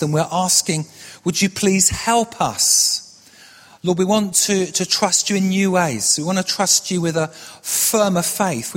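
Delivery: earnest prayer. Real, not acted. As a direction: pray steadily, giving the key words room. Leads a prayer.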